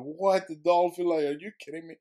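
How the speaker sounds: high, loud, incredulous outburst; astonished. Retold or imitated. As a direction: cry out in sheer disbelief. Astonished reaction to dolphin retold.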